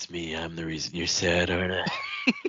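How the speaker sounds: creepy, unsettling delivery, low and hushed. Retelling a scene from a story, speaker quotes a character: retelling in a creepy voice. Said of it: "He said it all creepy like that".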